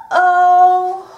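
loud, high uh-oh; surprised uh-oh. Acted. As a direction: gasp it out in alarm. Bear feels another wobble.

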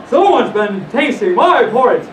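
lightly voiced big papa bear; storybook Father Bear, emphatic; great big father bear voice. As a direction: give it a big bear's weight. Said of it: "in his great big voice".

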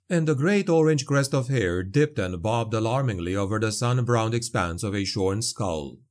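ordinary delivery

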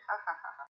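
a read-out ha ha ha, lightly laughed; a touch of a mocking laugh. A narrator's reading. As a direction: laugh it off like a teasing brother. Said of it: "y se ríe".

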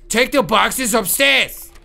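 loud, slow, high mock ogre bellow; Shrek's voice. Player correcting himself, giving the order in Shrek's voice. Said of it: "No, in Shrek's voice".

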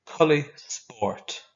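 very slow, deliberate Irish phrase; very slow model phrase. Shown as a demonstration. Teacher modelling the Irish for tracksuit, very slowly. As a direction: stretch it out so the class can copy. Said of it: "You say it after me".

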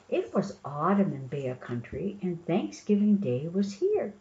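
storybook read-aloud, measured and projected; story narration. A narrator's reading. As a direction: read the picture book out to young children.

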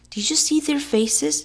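high, gleeful delivery; lightly acted mirth; laughing. A narrator's reading. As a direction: crow it with amusement.

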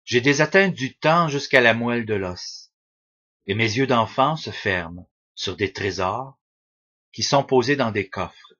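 measured poetry recital, pausing between lines; unhurried verse reading; poem reading. Acted. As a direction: read your old poem aloud, line by line. Reads own childhood poem aloud.

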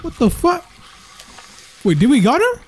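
high, anxious pleading; panicked urging. Real, not acted. Player asks Emma to pull a gun, high and panicked. Still fighting monster.

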